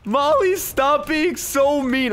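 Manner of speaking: high, drawn-out exclamations; shocked scolding. Real, not acted. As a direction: call her out in shocked disbelief. Scolds Molly, half amused.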